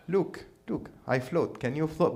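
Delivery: lightly put-on Arab accent; mock Arab accent. Jesus flexing on the water to disciples, mock Arab accent. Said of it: "that's his accent".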